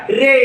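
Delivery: रे with the ay held; long ay sound. Shown as a demonstration. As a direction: model रे for learners, stretching the vowel. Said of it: "ए असा केलेला आहे". (रे मधला ए लांबवून)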